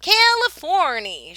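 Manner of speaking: loud, high joyful call; shout. A narrator's reading. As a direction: announce the arrival loudly. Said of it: "shouted the driver".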